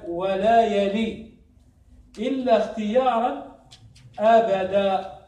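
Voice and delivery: slow recitation with drawn-out endings; verse recitation. Retold or imitated. Teacher reciting the rest of the verse, slow recitation. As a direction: recite in measured pieces, stretching the final word. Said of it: "قال".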